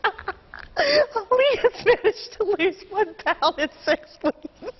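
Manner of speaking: laughing. Real, not acted. Anchor cracking up mid-story.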